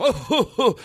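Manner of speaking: imitating a stiff awkward laugh; short forced stiff laugh; stiff fake laugh. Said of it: "It's like this stiff laugh".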